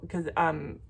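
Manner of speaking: normal talking voice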